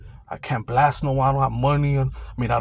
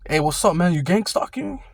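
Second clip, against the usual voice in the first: mock accusation rising high on gang stalking; imitating the guy's suspicious, rising challenge; accusing question; 4 semitones higher than usual. Guy with the Zelda backpack confronts the guard, rising accusation. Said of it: "and he says".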